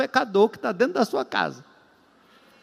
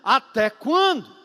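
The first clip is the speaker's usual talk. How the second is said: raised pitch, drawn-out plea; pained protest to God; 4 semitones higher than usual. Acted. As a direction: act out a complaint in prayer. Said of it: "não vai brigar com ninguém". (lamento encenado diante de Deus)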